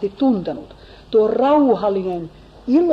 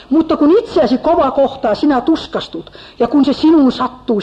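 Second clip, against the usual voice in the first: preached louder, as an accusing friend; a mild hammed-up scolding comforter; blurting reproach; 4 dB louder than usual. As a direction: throw the rebuke at him. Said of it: "hän jo läväyttää Jobille".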